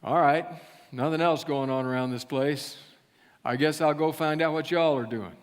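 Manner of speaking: put-on folksy southern-accented friend. Friend agreeing to come to church, southern accent. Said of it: "they spoke with a southern accent".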